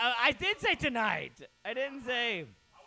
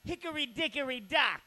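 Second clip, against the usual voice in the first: Andrew Dice Clay impression; 4 semitones higher than usual. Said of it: "that was my Andrew Dice Clay impression".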